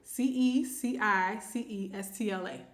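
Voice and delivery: each letter said separately, evenly spaced; spelling out letters. Real, not acted. Host reading an unfamiliar screen name, spelling it out. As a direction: read out letter by letter. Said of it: "I'm just gonna read the letters".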